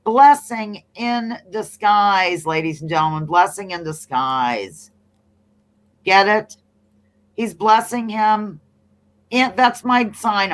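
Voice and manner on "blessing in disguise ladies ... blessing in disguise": slow, deliberate reveal; drawn-out announcement. Acted. Host reveals the puzzle answer to viewers, drawn-out announcement. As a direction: stretch it out like a grand announcement.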